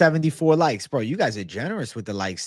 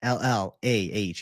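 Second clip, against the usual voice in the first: letters spelled slowly and evenly; spelling it out; slower than usual. Shown as a demonstration. Streamer spelling his version for chat, slowly. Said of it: "it should be spelled".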